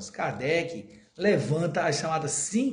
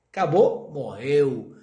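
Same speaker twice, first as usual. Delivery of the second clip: quoting a phrase; 6 dB louder, much slower than usual. Retold or imitated. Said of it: "como diria o Nesta Capitinga".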